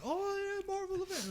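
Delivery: imitating excited dad. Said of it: "He got excited about".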